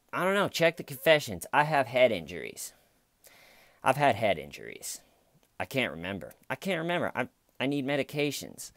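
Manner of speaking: high, whiny mock of a forgetful suspect; mock whiny excuse. Mocking a killer dodging the interrogator's questions, whiny. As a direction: whine the excuses like a dodging convict. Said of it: "all these funny lines".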